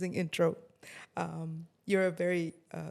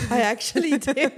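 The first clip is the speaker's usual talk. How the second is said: tearful; 6 semitones higher, 8 dB louder than usual. Real, not acted. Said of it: "She's crying".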